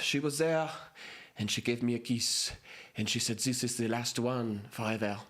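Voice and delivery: put-on lightly French-accented lovelorn diner patron; a hint of French as he mourns a lost kiss. French diner patron telling friends of his last kiss, light French accent. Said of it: "and I'll do French".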